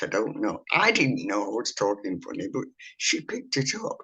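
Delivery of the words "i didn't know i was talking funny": normal talking voice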